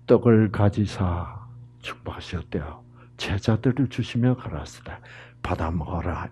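hushed scripture whisper. Acted. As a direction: whisper the verse softly to the flock. (경건하게 속삭이며)

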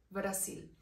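"Brasil" said the Portuguese way, the s voiced like a z, slowly; Portuguese pronunciation. Shown as a demonstration. Teacher showing students how Portugal says "Brasil" with a z. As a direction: say "Brasil" Portuguese-style with a buzzing z sound. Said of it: "Aquí se le menciona como Brasil".

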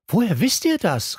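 high-pitched, upset demand; agitated question jumping up in pitch; agitated cry. A narrator's reading. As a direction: demand it, mildly outraged. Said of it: "rief Pink aufgebracht".

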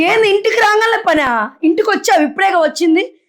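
wife snaps at husband back from work; angry scolding. Acted. Wife yells at husband in quarrel.

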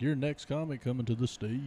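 stage introduction with a stretched last word; comedy club emcee. Acted. Host at Tiki Bar bringing up a comic, emcee voice. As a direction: introduce the act, drawing out the final word. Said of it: "so I can just be like".

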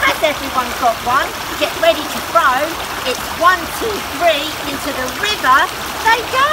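rally everyone for the race; excited countdown. Acted. Girl starting race.

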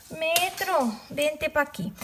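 lightly calling over a lost object; playful calling. Pretend. Crafter summoning her missing tape measure, playful calling.

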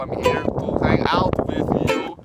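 put-on Russian accent, half-sung in places. Streamer improvising as a Russian on Periscope, Russian accent. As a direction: play a jokey Russian with a thick accent. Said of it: "Hello, I'm a Russian on Periscope".

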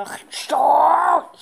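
whispered annoyed stop. Real, not acted. Kid whispers stop at the game, annoyed. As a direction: breathe out a fed-up stop.

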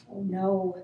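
low, soft worried aside; quiet dismay. A narrator's reading. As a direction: say it small and worried, hiding. Turkey hides from the farmer.

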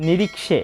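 "নিরীক্ষে" with short k running into sh; half-k cluster. Shown as a demonstration. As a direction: say "নিরীক্ষে" as ni-rik-she. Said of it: "ক অর্ধেক উচ্চারিত হবে".

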